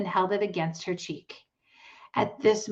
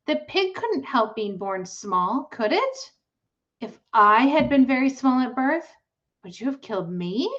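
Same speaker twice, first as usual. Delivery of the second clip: put-on pleading girl; 5 semitones higher than usual.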